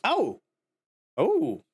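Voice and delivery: usual speaking voice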